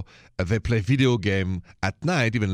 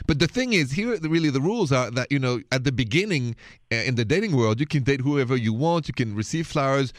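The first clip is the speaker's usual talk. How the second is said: put-on heavy French accent, suave radio host; a French host purring into the mic; French late-night radio host with a thick Paris accent; 4 semitones higher than usual. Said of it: "this thick accent of mine is from Paris".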